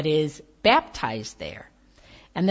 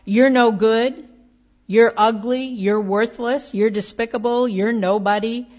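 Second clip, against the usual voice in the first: sharp accusing call, louder; mock shouting voices; 3 semitones higher, 4 dB louder than usual. The world's negative voices jeering at the listener, mock shouting. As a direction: throw the insults like a crowd of critics. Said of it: "voices that shout".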